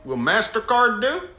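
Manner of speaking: put-on Southern drawl; Southern accent. Asking a customer cash or card, in a Southern accent. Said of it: "putting on a Southern accent".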